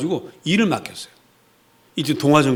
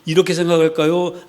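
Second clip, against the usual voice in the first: usual speaking voice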